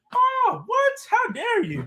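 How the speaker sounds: very high-pitched voice swinging all over. Teased about getting old, the speaker protests in a high-pitched voice. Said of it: "that high pitched voice he got?".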